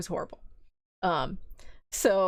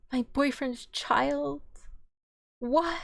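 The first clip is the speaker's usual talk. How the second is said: slow, higher-pitched exaggerated disbelief; mock shock; 5 semitones higher, slower than usual. Gaslit woman hears about the child, mock shock. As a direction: draw it out as if scandalized.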